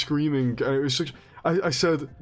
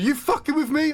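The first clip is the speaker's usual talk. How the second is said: mock angry caller; 12 semitones higher than usual. Angry caller voiced in phone story.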